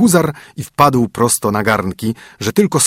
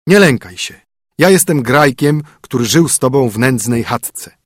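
lightly voiced reassuring king; king revealing himself. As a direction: reassure her, then explain the whole ruse.

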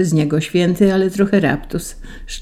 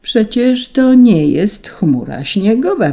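slow, higher, measured rebuke; spoken through teeth; 6 semitones higher, 4 dB louder than usual. A narrator's reading. Saint Peter barely bearing the angels, slow drawled rebuke. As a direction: draw it out with strained patience. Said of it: "wycedził".

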